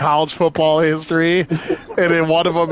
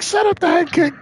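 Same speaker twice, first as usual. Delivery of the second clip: high-pitched English corner coach urging his fighter; a coach in an English accent, pitched well up; high English accent, pushing a downcast fighter; 13 semitones higher than usual. Retold or imitated. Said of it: "they all got those English accents".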